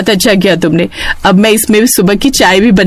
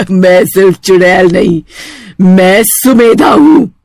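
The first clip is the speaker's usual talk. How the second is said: witch's cackle and reveal; 3 semitones lower than usual. Acted. Witch reveals her name. (चुड़ैल की हंसी और धीमा ऐलान)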